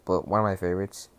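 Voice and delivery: quick hushed whisper; whispered aside. Real, not acted. Muttering an aside to viewers, whispered quickly. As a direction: slip it in under your breath, fast.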